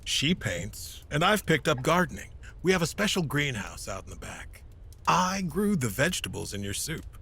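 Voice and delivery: a hint of an older man, easy and friendly; mild old knight making small talk; lightly voiced old hero proud of his garden. Old hero Balthion chats at dinner.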